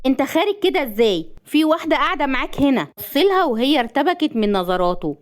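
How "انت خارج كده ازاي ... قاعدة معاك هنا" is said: high-pitched, startled protest; scandalised surprise; shocked. A narrator's reading. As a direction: object in shock, voice jumping up. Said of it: "بصدمة وقالت".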